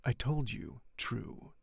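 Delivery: slow cold deliberate reply. Acted. The Count answering Franz, coldly and slowly. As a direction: lay each word down coldly and slowly. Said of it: "he replied coldly".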